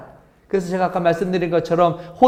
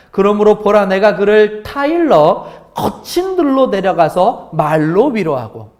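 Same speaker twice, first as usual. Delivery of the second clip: slow, weighty reading of the verse; solemn scripture reading; 4 dB louder, slower than usual. Shown as a demonstration. Pastor reads scripture slowly and solemnly to the congregation. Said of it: "다시 한번 말씀드리겠습니다".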